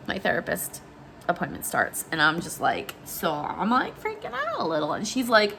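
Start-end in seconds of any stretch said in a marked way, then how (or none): 3.0-4.9 anxious confession. Retold or imitated. Acts confession to therapist.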